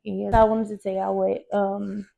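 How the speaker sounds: words slowed by chewing gum. Real, not acted. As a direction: talk while chewing gum. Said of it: "it's my gum".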